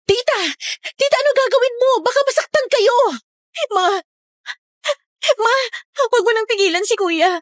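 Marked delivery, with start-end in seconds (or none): 0.1-5.6 frantic pleading. Acted. Panicked pleading in horror scene.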